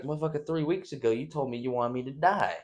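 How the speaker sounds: exasperated retort, climbing to a high yell at the end; indignant and baffled, building up; a put-upon Biden voice cracking high on the last line; mock outraged Biden. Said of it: "It's like".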